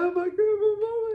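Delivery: high, loud mock cry for mama; mock wailing. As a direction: ham up a distraught child. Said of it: "I'm not gonna sit here like".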